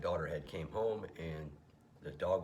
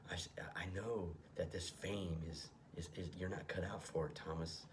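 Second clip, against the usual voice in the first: whispered demon; 4 dB quieter than usual. Acted. Demon whispering doubts to Thomas. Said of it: "his alter ego demon is talking about".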